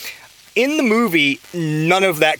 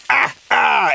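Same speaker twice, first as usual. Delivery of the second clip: gloating bad guy watching the massacre, mock evil laugh; villain laugh; 9 semitones higher than usual. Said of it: "And he's just like".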